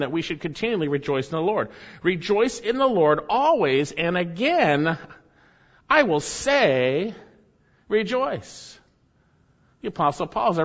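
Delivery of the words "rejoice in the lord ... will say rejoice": drawn-out recital of the verse; slow emphatic verse reading; slow scripture recital. Acted. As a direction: lean into each phrase slowly.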